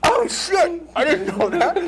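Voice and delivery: high, loud laughing shock; real surprise. Real, not acted. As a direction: caught off guard, laughing out loud. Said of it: "That is a revelation".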